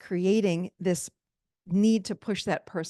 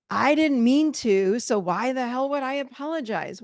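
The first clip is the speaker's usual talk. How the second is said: defensive excuse; 4 semitones higher, 3 dB louder than usual. Retold or imitated. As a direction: protest as if the apology is unfair. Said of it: "they think things like".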